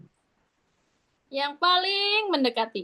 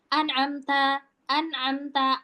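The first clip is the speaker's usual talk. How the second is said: N and M cut short; hurried wrong example of an'amta; too-quick an'amta; slower than usual. Shown as a demonstration. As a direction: rush through an'amta without holding the nasals. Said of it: "tapi itu kecepetan".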